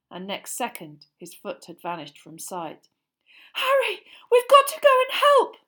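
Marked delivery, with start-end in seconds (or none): 3.5-5.6 put-on high, loud, desperate girl's voice; frantic girl's cry. A narrator's reading. Hermione begging Harry to help Ron, high frantic cry. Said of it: "Hermione cried".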